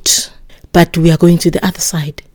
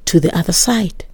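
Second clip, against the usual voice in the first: whispered; 7 dB quieter than usual. Acted. Preacher whispers the word's promise.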